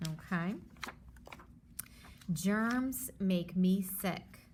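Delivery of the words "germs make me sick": slow title reading. Shown as a demonstration. Teacher slowly rereads the book title to her class. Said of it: "title read again slowly".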